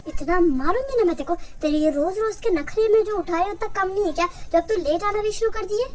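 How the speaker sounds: acted motherly telling-off, moderately heated; angry scolding. Mother fed up with her child's late returns, angry. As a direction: scold in mounting exasperation. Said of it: "काहे को इतना गुस्सा करती हो?".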